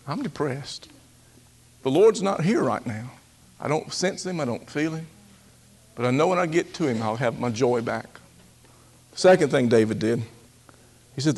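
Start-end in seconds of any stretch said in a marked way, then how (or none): 0.1-8.2 soft honest admission. Shown as a demonstration. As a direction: speak it gently to yourself. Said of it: "let's identify it".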